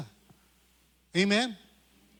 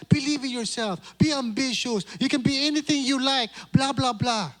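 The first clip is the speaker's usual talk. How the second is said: mocking slogans; 5 semitones higher than usual. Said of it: "Sa mundo kinagagalawan natin".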